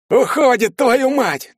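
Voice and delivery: high, loud agitated shout; неуёмный крик. A narrator's reading. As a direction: keep yelling, swearing in alarm. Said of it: "не унимался Карасик". (взвинченный крик с руганью)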